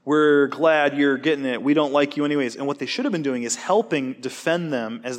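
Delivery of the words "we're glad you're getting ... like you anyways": mocking taunt. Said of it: "and they're saying".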